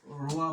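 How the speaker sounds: রোয়া with a plain r at the front of the tongue; simplified African-style r. Shown as a demonstration. Teacher offering learners a safer option, plain-r রোয়া. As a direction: say রোয়া with an easy Bangla r. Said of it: "কৃষ্ণবর্ণের যু-, লোকদের মতো".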